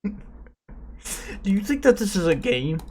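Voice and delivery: very slow, drawn-out accusation; slow menacing question. Acted. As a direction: drag out each word like a grilling. Mock interrogation, slow.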